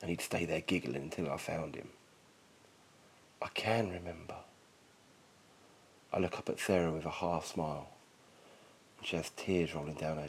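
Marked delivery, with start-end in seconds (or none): 3.4-4.4 soft Southern-free whisper of memory. A narrator's reading. Narrator whispering as a tender memory returns. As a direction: breathe it out barely voiced.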